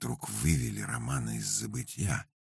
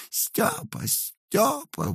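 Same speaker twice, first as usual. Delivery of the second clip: shrill high wail of a name, falling; much slower than usual. A narrator's reading. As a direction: howl for her husband in panic. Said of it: "вопила Рататиха".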